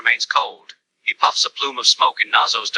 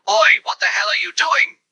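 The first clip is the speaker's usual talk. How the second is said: higher-pitched alarmed call; mild bellow; 9 semitones higher than usual. A narrator's reading. Duke calls after Nazo as he speeds off, a mild bellow. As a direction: bellow it without much added volume. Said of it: "Duke bellows".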